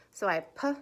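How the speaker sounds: p-et split into p and et; sounding out words. Shown as a demonstration. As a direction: break p-et into onset and rime. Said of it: "I sounded it out up here".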